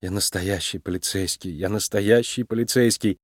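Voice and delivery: hopeless self-reassurance, very soft; weak mumble. A narrator's reading. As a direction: keep muttering it, barely there. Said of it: "слабо пробормотала она".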